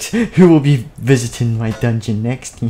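slow menacing king; villain voice. Acted. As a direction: taunt slowly like a villain.

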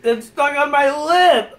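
slow, laughing with mouth full. Real, not acted. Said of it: "stuck to the roof of my mouth".

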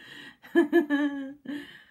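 high giggle; laughing. Real, not acted. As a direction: giggle at the idea. Laughs at own joke.

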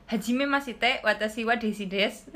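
Ngapak accent. Shown as a demonstration. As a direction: greet in Japanese with a Banyumas Ngapak tune. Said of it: "Kalau yang pakai nada ngapak, coba ya".

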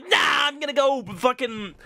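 high, loud sneering mock voice; hammed-up taunt in a mocking voice; mocking impression. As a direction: mimic the smug opponent with scorn. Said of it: "and he's like".

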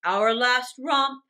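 loud, slow groan. A narrator's reading. Father laments to his wife, slow heavy groan. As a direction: drag it out as a lament. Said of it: "Mister Darling groaned".

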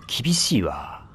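a tiny frustrated whisper under the breath; whispered aside. Real, not acted. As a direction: whisper it to yourself. Frustrated aside during game.

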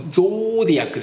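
ゾーディアック with a long round "oh"; British pronunciation. Shown as a demonstration. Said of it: "イギリス発音だと". (ゾーを丸く伸ばして「ゾーディアック」)

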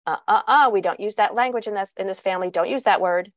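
a mild scold with a firmer opening; lightly voiced parent shutting down bad language; mock scolding of a child. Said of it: "here's what doesn't help".

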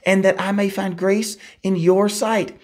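measured, solemn Bible reading; scripture reading. Acted. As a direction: read the passage aloud to the congregation. Reads the Exodus passage aloud.

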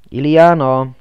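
loud call of her name. A narrator's reading. Man searching the dark rooms, loud call.

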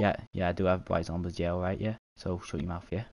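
mock British street banter; half-serious stab at a British accent. Shown as a demonstration. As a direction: put on a British accent, peppered with yeahs. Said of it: "You just gotta say yeah a lot".

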